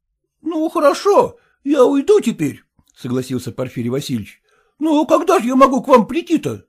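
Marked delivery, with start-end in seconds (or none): 0.0-2.6 put-on high, pleading, indignant voice of a fussy young husband; whining son-in-law. Son-in-law protesting to his father-in-law, high whining indignation. 4.6-6.7 put-on high, pleading, indignant voice of a fussy young husband; whining son-in-law. Son-in-law protesting to his father-in-law, high whining indignation.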